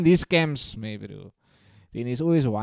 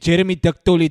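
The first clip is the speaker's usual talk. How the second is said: announcer voice; 3 semitones higher, 12 dB louder, faster than usual. Pretend. Announcing porn star name.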